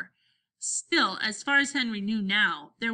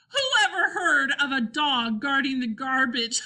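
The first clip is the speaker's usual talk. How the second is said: high, laugh-filled jeer; shouting with laughter; 5 semitones higher, 4 dB louder than usual. A narrator's reading. Scooter mocks the dog guarding garbage, laughing. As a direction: jeer through your laughter. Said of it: "began to shout with laughter".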